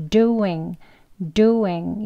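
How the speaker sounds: doing said slowly and fully; strong form doing. Shown as a demonstration. Teacher giving the strong form of doing. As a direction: say doing slow and full. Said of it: "이건 이제 강형입니다".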